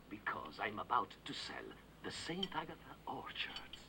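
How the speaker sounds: whispered reveal. Acted. Son reveals sale to mother.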